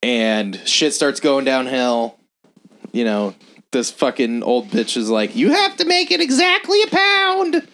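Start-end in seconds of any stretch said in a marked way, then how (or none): 5.3-7.7 put-on high, fussy old lady voice; mock old lady. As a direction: play the picky old customer. Old woman customer demanding.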